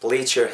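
"bleach your" as "blee-cher"; fuse "ch" and your in "bleach your"; "bleach your" said as one word; linked words. Shown as a demonstration. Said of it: "까지도 발음이 날 수 있겠죠".

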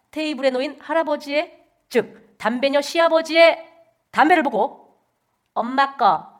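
formal anchor read, crisp and even; news anchor. Acted. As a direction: announce it like the evening news.

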